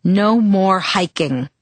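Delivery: slow, firm and final; no-argument tone. Acted. Father forbidding his daughter to hike, firm and final. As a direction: lay down the law. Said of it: "a tone that allowed no argument".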